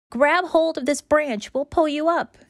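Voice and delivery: little bunny calling down to the puppy in the hole; squeaky bunny. Acted. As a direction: squeak it out like a tiny rabbit. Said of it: "Tilly squeaks".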